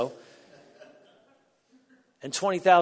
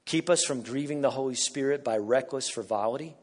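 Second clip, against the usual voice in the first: prayer. Acted. Prays word for word.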